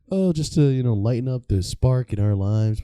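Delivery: high chirpy wife voice; mock upbeat wife, high voice; married couple.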